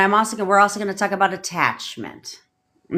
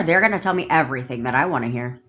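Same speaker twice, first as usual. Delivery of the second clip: commanding; 6 semitones lower, faster than usual. Shown as a demonstration. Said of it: "Command number".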